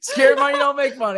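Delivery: high, loud laughing boast. Real, not acted. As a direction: crow it through laughter. Laughing boast over the bid.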